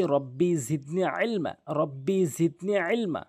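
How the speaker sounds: slow, measured recitation of a short dua; slow recited prayer. Shown as a demonstration. Teacher reciting a dua before the first lesson, slow and devout. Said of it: "পরের দোয়াটি পড়ে নিচ্ছি".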